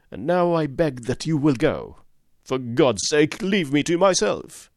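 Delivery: for God's sake thrown out high and loud; outburst. A narrator's reading. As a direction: let the restraint snap. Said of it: "These last words were shot out of him".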